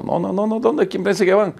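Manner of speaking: a lightly voiced gruff guard turning them away; mock guard. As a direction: brush them off like a doorman. Security guard blocking entry.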